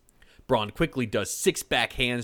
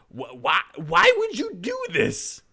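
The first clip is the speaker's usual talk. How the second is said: very high, slow anguished plea; pleading in pain; 7 dB louder, slower than usual. Acted. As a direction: beg through the pain. Broken witch pleads in pain.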